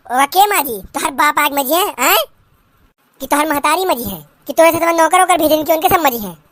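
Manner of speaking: put-on old village mother-in-law scolding in dialect; lightly voiced rustic saas, scolding; nagging mother-in-law.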